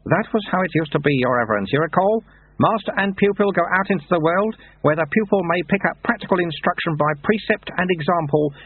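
lightly voiced wry old monk; dry, knowing old sweeper; old monk Lutze. A narrator's reading.

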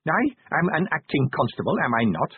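prim, high-pitched challenge; stiffly indignant little official; indignant insistence. Acted. Inspector indignantly asserts his rank.

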